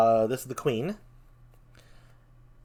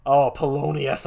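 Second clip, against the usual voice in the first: usual speaking voice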